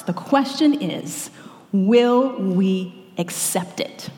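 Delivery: hushed, slow whisper to draw them in; slow hushed whisper before the key question. Real, not acted. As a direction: lean in and whisper the setup.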